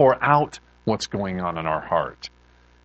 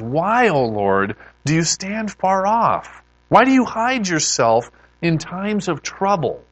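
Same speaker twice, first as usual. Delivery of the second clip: questioning plea; 5 semitones higher than usual. Acted. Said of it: "of questioning why".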